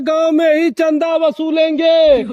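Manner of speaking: town crier. Acted. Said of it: "आगे जाके चिल्ला यार".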